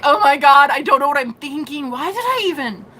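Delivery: high, hammed-up distraught wail; mock crying. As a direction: play a man bawling to his date. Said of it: "crying to her".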